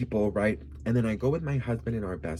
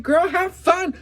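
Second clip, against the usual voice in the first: cheering on; 9 dB louder, slower than usual. Retold or imitated. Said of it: "I'm like".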